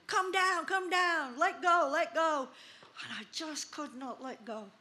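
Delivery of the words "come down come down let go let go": mock shout. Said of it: "They were all shouting at me".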